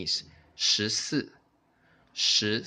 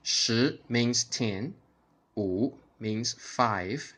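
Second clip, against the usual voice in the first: slow, deliberate shi and wu; slow teaching; slower than usual. Shown as a demonstration. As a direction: lay out each digit slowly. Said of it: "imitate my intonation".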